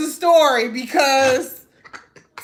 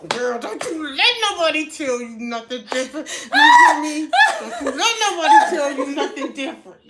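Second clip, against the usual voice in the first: laughing pep talk; faster than usual. Retold or imitated.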